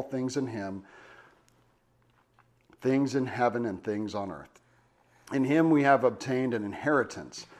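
measured, solemn Bible reading; scripture reading. Acted. Preacher reading Ephesians to the congregation, solemn read. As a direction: read the passage out like a sermon lesson. Reads Ephesians passage aloud.

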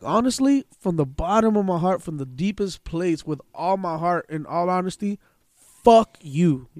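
deliberate phrase-by-phrase build to the final words; solemnly heartfelt retold insult. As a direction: draw it out like an earnest vow. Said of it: "I told her like that".

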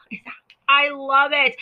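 breathy whispered confession; whispering. Real, not acted. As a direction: whisper it fondly, like a secret. Fond aside about chutney.

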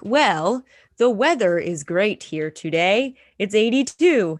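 slow, even robot announcement. Pretend. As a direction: recite it like a machine. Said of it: "You sound like a robot".

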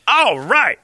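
high, loud, drawn-out whoop of approval; excited mock cheer. Dude won over by the attendant, excited cheer. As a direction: imitate a dude suddenly cheered up. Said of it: "you hear the dude's like".

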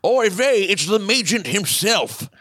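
high, drawn-out put-on Jewish announcer voice. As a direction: play J R as a Yiddish-tinged old announcer. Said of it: "Jewish J R voice, he adds".

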